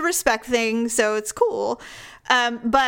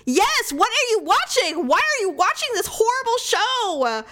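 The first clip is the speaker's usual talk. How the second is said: higher-pitched, slow mock exasperation; exasperated retort; 10 semitones higher than usual. Wife answering her husband about a horrible show, mock exasperated. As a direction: drag it out, half-horrified. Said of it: "I'm like".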